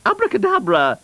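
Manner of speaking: high, declaimed magic word; cow casting spell. Acted. Blue Cow tries the magic word, high incantation.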